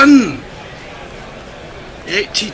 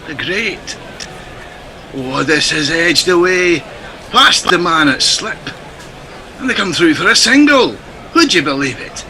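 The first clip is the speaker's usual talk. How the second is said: put-on Scottish accent. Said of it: "Ace impression".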